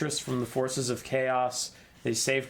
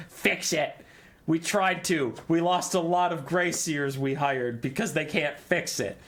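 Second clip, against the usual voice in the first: a hint of a squeaky creature telling them off; ranting Skaven; 4 semitones higher than usual. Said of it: "And they say".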